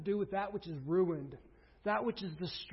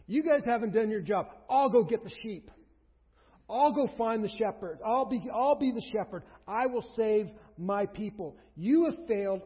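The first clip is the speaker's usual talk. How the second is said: God rebuking shepherds; 5 dB louder than usual. Acted.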